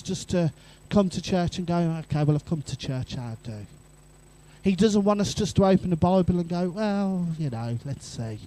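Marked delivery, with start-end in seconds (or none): 1.8-3.6 a shrugging, dutiful churchgoer; half-hearted. Retold or imitated. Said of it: "he doesn't want us to be half-hearted". 6.7-8.4 offhand and lukewarm; half-hearted. Retold or imitated. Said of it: "he doesn't want us to be half-hearted".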